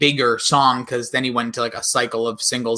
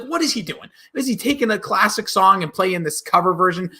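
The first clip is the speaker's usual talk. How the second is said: incredulous; 5 semitones higher than usual. Retold or imitated. Retelling his own confused reaction.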